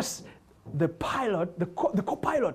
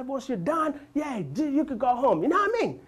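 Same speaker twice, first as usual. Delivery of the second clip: cockney Jamaican; 6 semitones higher than usual. Retold or imitated. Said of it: "young Jamaican dude who's very cockney".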